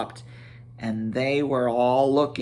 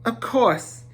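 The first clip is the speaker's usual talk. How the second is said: flustered agreement; 8 semitones higher than usual. Acted. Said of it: "sat down in a hurry".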